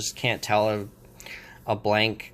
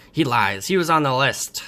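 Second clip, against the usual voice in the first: louder, emphatic goblin retort; mock accusation; 2 semitones higher, 5 dB louder than usual. Goblin accusing the captive before his queen, mock accusation. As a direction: accuse him with raised voice, lightly acted.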